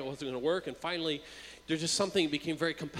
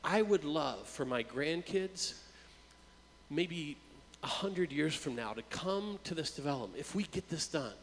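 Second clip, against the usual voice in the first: retold choked-up words; 4 dB quieter than usual. Wealthy developer sharing his dream with the pastor, mildly choked up. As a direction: let the voice catch lightly on the dream. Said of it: "he's all choked up".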